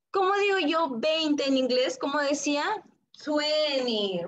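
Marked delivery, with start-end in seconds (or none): 3.2-4.2 Twenty with the T dropped, said like weni; American twenty. Shown as a demonstration. Teacher models the American way for the class, no T.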